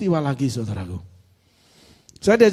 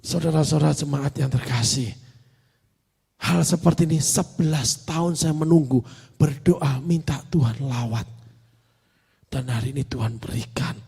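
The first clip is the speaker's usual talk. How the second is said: tearful pastor imitated; 5 semitones lower, 4 dB quieter than usual. Woman pastor tells congregation God answered, hushed imitation. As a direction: let the voice sink softly, as if moved. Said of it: "Dia bicara".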